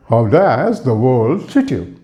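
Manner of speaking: slow, lilting "world treat you"; musical greeting. Shown as a demonstration. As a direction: stretch "does" and "world", pause before "treat you". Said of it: "just add up some music with it".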